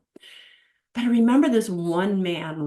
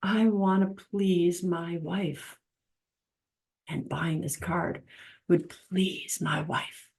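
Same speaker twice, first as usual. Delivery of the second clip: tender; 6 dB quieter, slower than usual. Retold or imitated. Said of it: "purchase that card and say".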